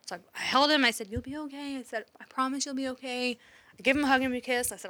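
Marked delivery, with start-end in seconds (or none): 1.1-1.8 soft, higher comforting mom voice; retold tender comfort, hushed; gentle reassurance. Mom retells comforting crying son. 2.2-3.4 soft, tender promise; retold motherly comfort, softened; gentle reassurance. Mom retells comforting crying son.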